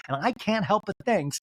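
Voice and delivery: high-pitched upset impression; mock tearful. Castmate venting in the talking head, mock tearful. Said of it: "she starts to cry".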